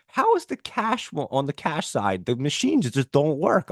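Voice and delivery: high mock outrage; high-pitched exasperated complaint. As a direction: replay his complaint to the staff. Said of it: "I'm like".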